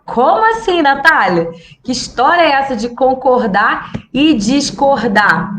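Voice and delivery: mock surprise. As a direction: play a puzzled viewer. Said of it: "viewer's imagined question". (pergunta surpresa e aguda de espectador)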